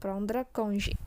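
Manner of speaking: "Prendre congé" as "prond-rə kon-zhé"; French pronunciation. Shown as a demonstration. Teacher modelling the phrase, "Prendre congé" in careful French. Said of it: "huruf G diucapkan".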